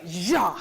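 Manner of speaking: one strong, sustained sung "ja"; accented down-bow. Shown as a demonstration. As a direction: imitate an accented down-bow stroke on "ja". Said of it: "starts with an accent and a down bow".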